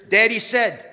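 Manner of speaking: put-on kid's call. They run down the stairs.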